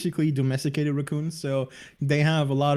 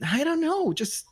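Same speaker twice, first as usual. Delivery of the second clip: a higher, modest mock shrug of a reply; modest brush-off; 5 semitones higher than usual. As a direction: play down your own spotlight, lightly voiced. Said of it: "And I'm like".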